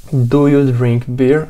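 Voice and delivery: slow question with a rising end; slow model question. Shown as a demonstration. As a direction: ask it slowly, lifting at the end. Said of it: "qual que é a ideia".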